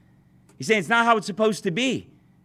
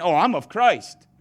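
mock spiritual; slower than usual. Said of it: "others of you are so spiritual".

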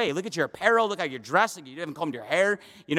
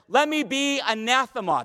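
high, emphatic self-curse; preacher acting out a defiant oath; vehement oath; 6 semitones higher than usual. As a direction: proclaim a curse on yourself. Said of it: "He goes like this".

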